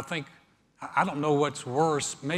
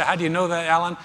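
mock challenge from listener; 3 semitones higher, 6 dB louder, faster than usual. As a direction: throw the question back at the preacher. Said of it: "You say".

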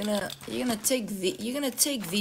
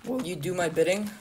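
voice crack. Real, not acted. The host asks a player to serve him, voice cracking. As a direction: voice cracking mid question. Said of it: "Fuck, that was a voice crack".

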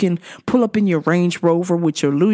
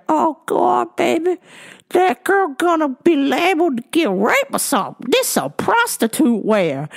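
a hint of a scolding old granny; lightly voiced granny; 6 semitones higher than usual. Granny disapproving of the girl's skirt, lightly voiced. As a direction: mildly voice a tutting grandma. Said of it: "Wee Granny was like".

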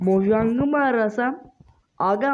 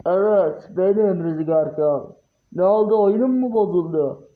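villain voice; 4 semitones lower than usual. Pretend. Dark Lord voiced on phone.

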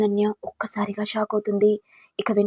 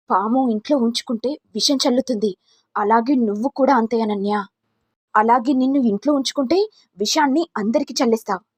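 raised, louder accusing voice; angry denunciation; 2 semitones higher, 4 dB louder than usual. Acted. Mother-in-law condemning Ananya, loud and angry. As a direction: rail at her like a snake in the house.

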